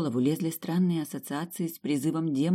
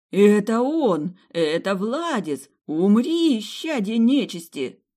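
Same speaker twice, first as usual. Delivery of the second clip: loud, slow fanatical shout; crying out; 6 semitones higher, 7 dB louder, slower than usual. Acted. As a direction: yell at the enemy in a frenzy. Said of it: "Заголосили служители света".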